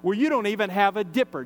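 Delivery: lightly sarcastic challenge; retold comeback with a touch of sarcasm. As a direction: point out the flaw, mildly mocking. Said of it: "maybe she says sarcastically".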